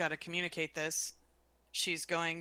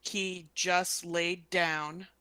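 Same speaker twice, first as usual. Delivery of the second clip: urgent message; 5 dB louder, slower than usual. Acted. Telepathic warning message to Roden.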